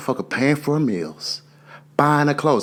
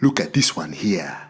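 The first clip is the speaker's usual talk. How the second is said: gruff dad voice; 2 semitones lower, slower than usual. Retold or imitated. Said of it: "he busted through the door".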